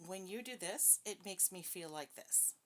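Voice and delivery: even, measured, calm statement; calm assertive demo. Shown as a demonstration. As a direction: state the feeling steadily without blame. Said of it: "assertive is when you look at the person and go".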